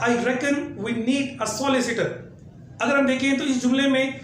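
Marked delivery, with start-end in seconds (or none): 0.0-2.1 slow careful British English; British accent. Shown as a demonstration. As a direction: say it the British way, very slowly. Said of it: "British English में कहा जाएगा". (धीमा British लहजा)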